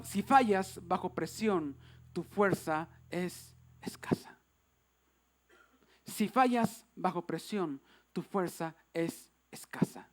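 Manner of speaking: slow, low, soft and solemn; hushed exhortation. Real, not acted. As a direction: drop almost to a whisper, measured. (exhortación solemne, casi susurrada)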